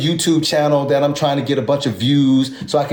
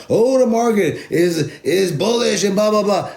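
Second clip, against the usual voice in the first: high-pitched, drawn-out mocking hype voice; mock hype-man; 8 semitones higher, slower than usual. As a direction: mimic someone pumping up the market, high and silly. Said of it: "trying to pump you up, talking about".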